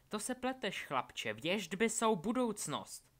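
high, loud, drawn-out correction; fanatical villain. A narrator's reading. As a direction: proclaim the prophecy with slow, soaring conviction. Villain insists on her prophecy.

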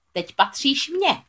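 slow, high possessive croak; witch gloating. A narrator's reading. Witch seizing Ariel, slow gloating croak. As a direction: drag each word, savouring the catch.

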